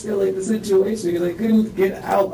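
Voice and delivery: high, strained voice on the edge of tears; distressed. Real, not acted. Man telling the interviewer he never meant her to fall, distressed and high. Still distressed, explaining himself.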